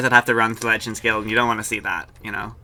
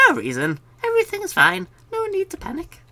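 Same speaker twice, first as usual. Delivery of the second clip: high nervous npc voice. Acted. NPC pretending all is well.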